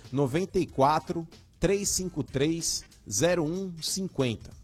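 digits read out slowly; slow dictation. Shown as a demonstration. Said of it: "interagir conosco aí pelo WhatsApp".

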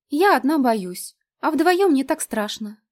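coaxing plea. A narrator's reading. Lena pleads coaxingly.

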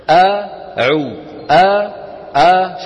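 أعو begun with a wide-open, loud "a"; open fatha. Shown as a demonstration. Teacher shows students the mouth opening, wide fatha. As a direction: open the mouth fully on each أ. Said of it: "شايفين الفتح؟".

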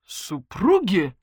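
astonished. Acted. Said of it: "вытаращил глаза полковник".

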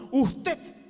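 booming solemn usted; mock a lofty prayer voice; pompous formal prayer. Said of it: "y hablaba de así".

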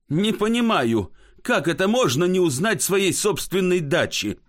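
mild acted indignation; indignant. Thirsty Laev rebukes his drunk friend, indignant. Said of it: "возмущается Лаев".

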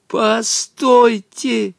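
slow, high shout to stop; desperate shout. A narrator's reading. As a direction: call out with all your might. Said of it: "закричал тогда изо всех сил Волька". (изо всех сил)

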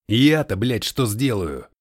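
loud, swearing snap; panicked retort. A narrator's reading. Colton snaps back at Noah in a panic, loud.

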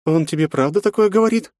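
high woman's voice, shocked; a woman appalled by news; horrified woman. A narrator's reading. Yufi asks in horror. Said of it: "ужаснулась Юфи".

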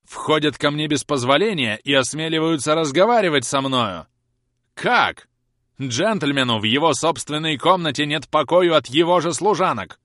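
громкий, высокий гневный упрёк; отчитай её гневно. A narrator's reading. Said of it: "гневно продолжал мистер Домби". (хозяин дома гневно упрекает экономку)

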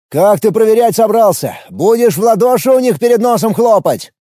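high, loud yell over the noise. A narrator's reading. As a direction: bellow it back over the roar. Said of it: "проорал я в ответ".

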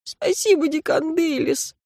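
student thanks his teacher. Acted. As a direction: thank her, still shaken. Thanks in character voice.

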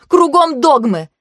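loud, building angry rant; carried away. A narrator's reading. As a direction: let the rant run away with you. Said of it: "Меня уже несло".

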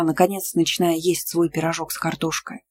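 ordinary delivery

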